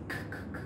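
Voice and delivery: very soft, unvoiced "c, c, c" bursts; whispered "c". Shown as a demonstration. Teacher demonstrating the "k" sound before "cancel". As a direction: breathe the "c" sound out.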